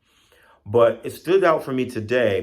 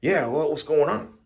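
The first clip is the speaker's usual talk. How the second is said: higher put-on voice of a woken snake; just-woken snake; 8 semitones higher, 3 dB louder than usual. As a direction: answer as a snake roused from sleep. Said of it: "He's fast asleep".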